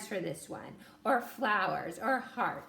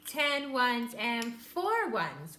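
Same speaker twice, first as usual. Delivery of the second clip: slow counting; much slower than usual. Shown as a demonstration. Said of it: "that's how we did it".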